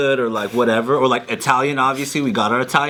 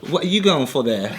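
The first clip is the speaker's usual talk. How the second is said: put-on British accent. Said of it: "Does it sound fake, or does it sound like an actual region".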